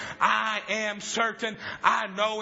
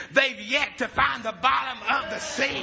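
joyful shout; 3 semitones higher, slower than usual. Retold or imitated. Father shouting his discovery.

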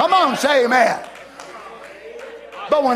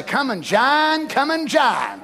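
sneering mock of a call to join; slower than usual. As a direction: scoff at the words come and join. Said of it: "in a mocking type of way say".

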